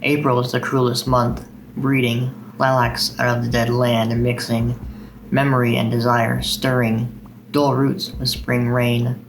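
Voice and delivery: slow, measured poetry reading; unhurried recital voice with steady cadence; poem recitation. Acted. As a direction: read it like a poem to an audience. Reads Eliot aloud.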